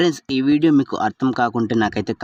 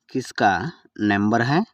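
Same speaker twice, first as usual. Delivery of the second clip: word by word. Shown as a demonstration. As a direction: split కిస్కా from నంబర్ హై for learners. Teacher repeats phrase word by word. (పదం పదంగా విడదీసి)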